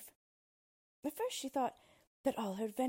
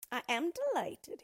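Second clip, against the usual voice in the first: higher, louder gleeful gloating; delighted dwarf; 8 semitones higher, 6 dB louder than usual. Acted. Dwarf gloating to his new mother-in-law, gleeful. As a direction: savor his triumph.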